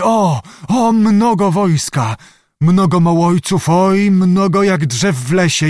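high, drawn-out wonder at first; awed vision. A narrator's reading. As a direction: cry out as the vision swells. Witch sees a great army.

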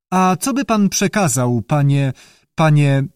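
a light, mock stammer over the word panie. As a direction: repeat panie with hesitant stumbles. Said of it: "jąkałem się".

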